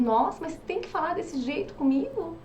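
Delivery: wounded whine of a partner who wants gentleness; hurt complaint. Retold or imitated. Sensitive partner hurt by blunt spouse, mild mock-wounded whine. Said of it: "fala, e o outro".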